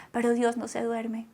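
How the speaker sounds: soft, unvoiced whisper. Real, not acted. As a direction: breathe the words like a secret. Whispered refrain in sermon.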